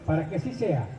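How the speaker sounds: booming formal royal decree; town crier proclamation. Acted. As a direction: proclaim it like a medieval herald. Formal medieval royal proclamation read aloud.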